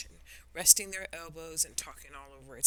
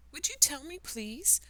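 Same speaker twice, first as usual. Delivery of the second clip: timid; 4 semitones higher than usual. Acted. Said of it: "she said timidly".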